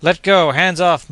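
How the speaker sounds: high, loud frantic cries; hoarse grating voice. A narrator's reading. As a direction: struggle and cry out hoarsely. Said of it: "moaned the Scot in a hoarse, grating voice".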